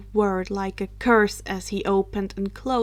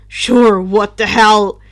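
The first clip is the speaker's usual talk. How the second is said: shrugging; 11 dB louder than usual. Acted. Drake shrugs along.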